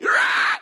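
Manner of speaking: loud, rough roar; short imitated roar; mock teacher roar. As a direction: roar like a terrifying teacher pouncing. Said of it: "And she's like".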